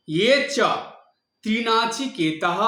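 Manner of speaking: ইয়ে as "i-ye", ত্রিনাচিকেতঃ ending in a breathed "h"; "i-ye cha trinachiketah", visarga as "h"; Sanskrit pronunciation. Shown as a demonstration. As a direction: sound the antastha ya and the visarga. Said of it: "এখানে ইয়ে বলতে হবে".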